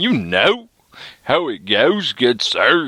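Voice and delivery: bad fake British accent, dragged out very slow. Ranting about child support, the speaker addresses listeners in a terrible British accent. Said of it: "that was a terrible British accent".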